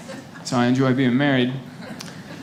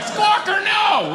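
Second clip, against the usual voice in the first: wailing sob; much slower than usual. Retold or imitated. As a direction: break down mid-ceremony in a howl. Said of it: "I was like".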